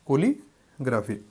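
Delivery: কলিগ্রাফি drawn out slowly, every syllable clear; teacher repeats the word slowly for the class; slow, careful word. Shown as a demonstration. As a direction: say কলিগ্রাফি slowly so students catch it. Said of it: "আশা করি বুঝতে পেরেছেন".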